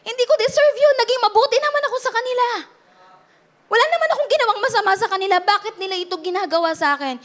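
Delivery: high, hurt voice, rushing near the end; retold tearful plea. Pastor reliving her hurt to the congregation, high and tearful. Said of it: "Parang pakiramdam ko".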